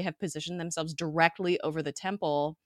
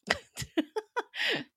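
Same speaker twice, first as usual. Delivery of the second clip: laugh. Real, not acted. Laughing at making-out remark.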